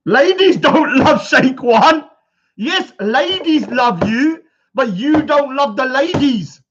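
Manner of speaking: slow, loud mock-pleading taunt. Taunting the rival about the ladies, slow mock whine. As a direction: drag it out like a mocking whine.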